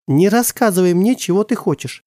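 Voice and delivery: mother exploding. Acted. Mother to father, suddenly exploding in anger. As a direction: snap back at him. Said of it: "внезапно взорвалась мама".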